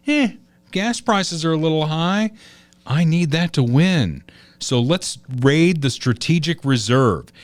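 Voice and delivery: mock a smug president scheming to win. Mocking Biden raiding reserve.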